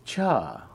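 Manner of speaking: "cha" in a drawn-out high tone. Shown as a demonstration. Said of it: "which is a high tone".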